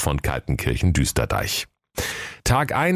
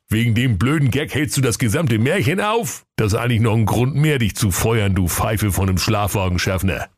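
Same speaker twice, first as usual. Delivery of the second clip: annoyed boss; 4 semitones higher than usual. Acted.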